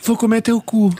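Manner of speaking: high shouted dub line; parody shout. Retold or imitated. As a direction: yell it like a crazed dub.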